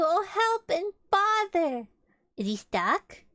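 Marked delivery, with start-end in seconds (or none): 0.0-1.9 high, loud, drawn-out dismay; slow raised wail of a bear in a fix; exasperated Pooh. Acted. Stuck Pooh exclaims in the story.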